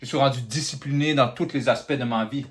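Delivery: prayer. Acted. A man thanking God in prayer, earnest and steady. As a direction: speak to God with gratitude. Speaker prays aloud to God.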